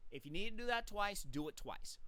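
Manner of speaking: talking round a mint; words round a mint in the mouth; mouth full. Real, not acted. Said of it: "I have mint in my mouth".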